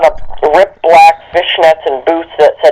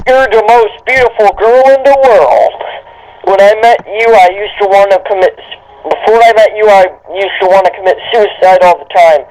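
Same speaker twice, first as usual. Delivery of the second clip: mock lovesick confession; 3 semitones higher than usual. Dramatic reading of fanfic dialogue.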